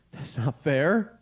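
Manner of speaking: drawn-out whine rising on fair; slow mock whine. Cheated husband complaining to cohost, slow mock whine. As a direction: stretch it like a sulking kid.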